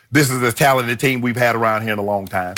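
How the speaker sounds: lightly imitated team owner, pitched low; a low-voiced take on the Cowboys owner; Jerry Jones. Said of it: "That's your best, Jerry".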